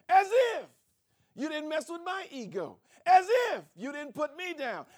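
loud, sarcastic and indignant, building; offended retort. Acted. Offended partner firing back at a spouse, loud and sarcastic. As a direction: spit each as if back in anger.

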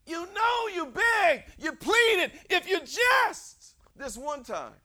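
stretched, loud phrases climbing to a shout; high, impassioned pulpit cry; full-force preaching. Real, not acted. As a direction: drive it home slowly and loudly.

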